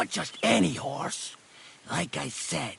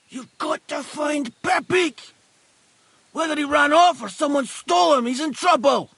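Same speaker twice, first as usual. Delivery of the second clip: urgent, louder plea; 5 semitones higher, 4 dB louder than usual. Acted. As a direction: press him hard to go now. Urgent plea to find horse.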